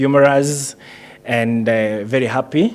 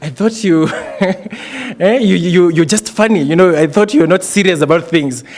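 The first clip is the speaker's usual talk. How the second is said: higher, louder mock disbelief; retold surprise; 5 semitones higher, 3 dB louder than usual. Friend startled to find the comic one serious, in mock disbelief. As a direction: act out a friend's amused astonishment, getting louder. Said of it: "And then he was like".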